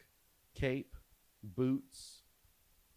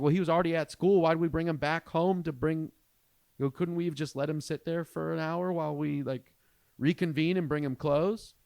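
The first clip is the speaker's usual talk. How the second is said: exasperated rant; 6 semitones higher, 6 dB louder than usual. Retold or imitated. Arguing with wife about son.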